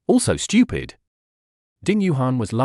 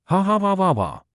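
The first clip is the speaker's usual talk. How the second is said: laughing; 7 semitones higher than usual. A narrator's reading. Laughing at girlfriend's blunder.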